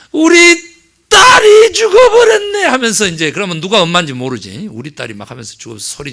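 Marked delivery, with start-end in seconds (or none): 0.1-2.6 high, slow wailing cry of a hired mourner; howling grief at a funeral, much higher and louder. Retold or imitated. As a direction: sob and shout it out like a professional mourner. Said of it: "막 소리소리 지르면서".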